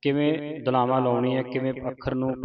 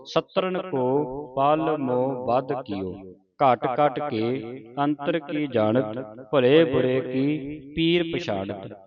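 slow, measured verse recitation; scripture recitation; much slower than usual. Shown as a demonstration. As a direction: recite the verse slowly, drawing out line endings. (ਹੌਲੀ-ਹੌਲੀ ਪਾਠ ਉਚਾਰਨ)

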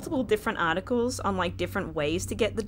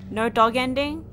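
rising, louder in disbelief; dismayed disbelief; 4 semitones higher, 5 dB louder than usual. Real, not acted. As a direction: asks it like it can't be true. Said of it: "I'm gonna cry".

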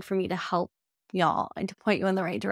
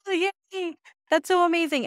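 high-pitched, gushing delight; excited cheering; 10 semitones higher, 4 dB louder than usual. Retold or imitated. Helper watching her student show an animal, excited cheering. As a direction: coo proudly at someone's success. Acting her proud reaction at ringside.

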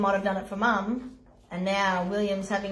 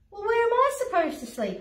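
lion voice; 11 semitones higher, faster than usual. Acted. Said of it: "asked the lion".

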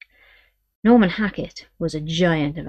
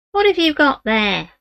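put-on higher, slow old woman's voice; a suspicious old gypsy great-grandmother; 8 semitones higher, 5 dB louder than usual.

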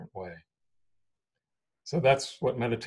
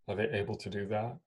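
unhurried meditation guidance with long pauses; guided meditation. Real, not acted. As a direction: guide them into stillness, leaving space between phrases.

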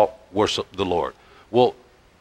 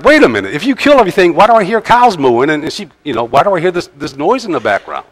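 much higher and louder, incredulous outburst; incredulous Samuel; 7 semitones higher, 5 dB louder, faster than usual. Retold or imitated. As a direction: retell Samuel's baffled challenge, pitch way up. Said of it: "Samuel's like".

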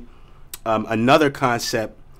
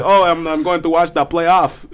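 Patrick Roy voice; 3 semitones higher than usual. Retold or imitated. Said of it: "that's how I say it now".

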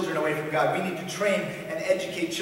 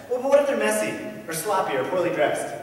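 higher, louder mock objection; protesting objector; 4 semitones higher, 5 dB louder than usual. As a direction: press the fussy objection harder. Voices objector's next protest.

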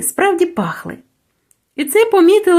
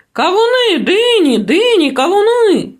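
higher, falling market cries, word by word; melon sellers shouting; 6 semitones higher than usual. A narrator's reading. Melon sellers shout their wares at the busy bazaar, higher. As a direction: bark out each fruit to the crowd. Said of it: "кричали там".

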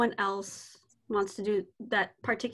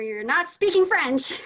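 blurted truth; 4 semitones higher, 6 dB louder than usual. Acted. Teacher finally blurts out the truth.

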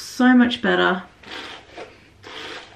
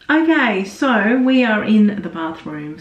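bathroom echo; 4 dB louder than usual. Real, not acted. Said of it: "So sorry about the echoing".

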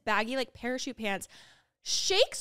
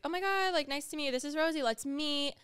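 higher, bright-eyed hello to a guest; chirpy greeting; 5 semitones higher than usual. Retold or imitated. To Jordan at the door, a high cheery hello. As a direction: gush a welcome at the newcomer.

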